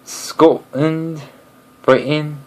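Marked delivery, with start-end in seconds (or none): 0.1-1.2 "Scotland" broken by a stop at the T; "Scotland" in two pieces, split at the T; Scottish pronunciation. Shown as a demonstration. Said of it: "You stop suddenly after".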